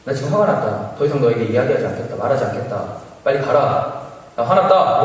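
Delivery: mild, stern retold anger; firm rebuke, rising on the last warning. Recounting his warning to the intruder, mildly angry. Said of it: "너무 화가 나서".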